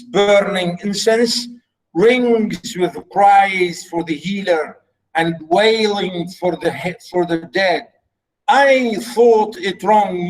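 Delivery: slow, drawn-out verse reading; measured dramatic recitation; lightly voiced king. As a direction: declaim it slowly as a king. Reads the play aloud.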